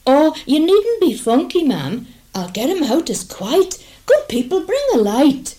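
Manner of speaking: high, loud coachman call. Acted. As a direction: call to the people for a light.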